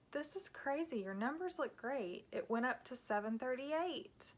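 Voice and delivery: a touch of a cheerful doctor's good news; upbeat doctor. Retold or imitated. Doctor calling the patient with good news, lightly upbeat. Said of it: "surprised at her upbeat voice".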